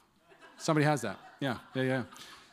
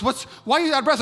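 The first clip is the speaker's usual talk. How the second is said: put-on puzzled girlfriend; 11 semitones higher, 8 dB louder, faster than usual. Girlfriend at the door.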